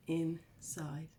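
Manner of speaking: soft whispered ending. Acted. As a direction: breathe the last word. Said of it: "whispered final word".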